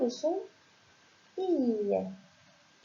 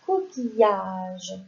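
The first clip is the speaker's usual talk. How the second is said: slow sounding out; 3 semitones lower, 3 dB louder, much slower than usual. Shown as a demonstration. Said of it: "c'est un".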